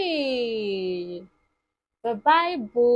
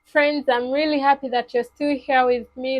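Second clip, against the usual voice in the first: fast, louder, bubbly thanks; excited; 5 dB louder, much faster than usual. Real, not acted. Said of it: "excited greeting to children".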